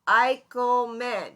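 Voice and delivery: Eichelman said slowly, syllable by syllable. Shown as a demonstration. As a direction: clap out Eichelman in three slow beats. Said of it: "is three syllables".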